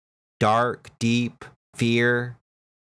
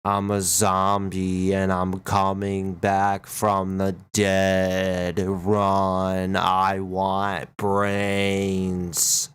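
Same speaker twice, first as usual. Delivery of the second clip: zombie voice; 3 semitones lower, much slower than usual. Acted. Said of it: "This is the zombie voice".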